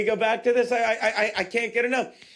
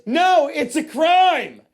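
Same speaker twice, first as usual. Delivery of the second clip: indignant; 4 semitones higher, 6 dB louder, much slower than usual. Real, not acted. Indignant about the article.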